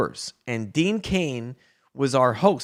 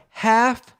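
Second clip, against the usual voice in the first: higher, louder parting call; the fan calls back while leaving, louder; called over the shoulder; 3 semitones higher, 4 dB louder, slower than usual. Retold or imitated. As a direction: shout it back while walking away. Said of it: "As he walks away".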